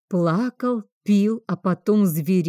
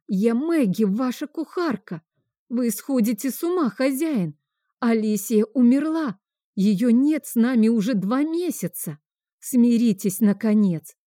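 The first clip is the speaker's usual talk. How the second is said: desperate outcry; 5 semitones higher than usual. Acted. Choked cook crying out at master.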